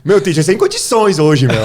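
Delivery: loud, high imitation of a Mooca student; Mooca accent. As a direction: drag it out in a hammed-up São Paulo Mooca accent. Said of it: "uma aluna da Moca".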